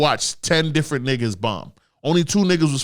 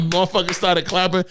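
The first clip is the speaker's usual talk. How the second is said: ordinary talk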